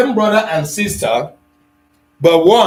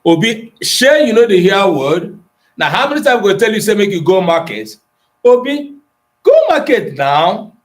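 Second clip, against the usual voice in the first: scolding father in pidgin; 4 semitones higher than usual. Acted. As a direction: play an exasperated father ordering Obi to the market. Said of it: "Somebody don't bring am for pidgin".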